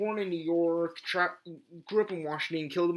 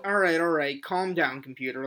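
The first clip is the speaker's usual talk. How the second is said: loud; 4 dB louder than usual. Real, not acted. Scolding the noisy computer.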